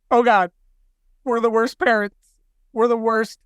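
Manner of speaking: mock panic. New parents panicking to doctor.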